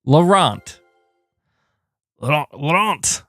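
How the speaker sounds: trying out "Laurent" in a shaky French accent; attempted French accent. Shown as a demonstration. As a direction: practice the name in a French accent. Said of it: "I don't think that's a French accent".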